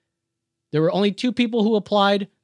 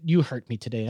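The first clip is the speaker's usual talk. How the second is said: mock hurt; 6 semitones lower, 4 dB quieter than usual. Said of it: "basically I said".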